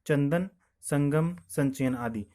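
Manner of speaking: चंदन, संगम said slowly, nasal sound drawn out; slow example words. Shown as a demonstration. Teacher to students, saying चंदन and संगम slowly. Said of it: "अनुस्वार का चिन्ह लगा हुआ है".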